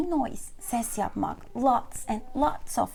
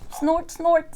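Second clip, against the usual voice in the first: high, louder snorting noises; giggling snorts; 4 semitones higher, 5 dB louder than usual. A narrator's reading. English teacher voicing George for learners, snorting giggle. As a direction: snort as a giggling little character. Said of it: "kıkırdamış George".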